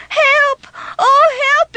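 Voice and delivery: high, desperate cry for help; screaming for help. Acted. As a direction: call out trapped on the track. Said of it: "he screamed".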